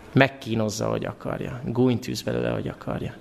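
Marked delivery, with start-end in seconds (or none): 0.9-1.6 whispered aside. Shown as a demonstration. Satan torments Jesus as he likes. 2.5-3.1 whispered aside. Shown as a demonstration.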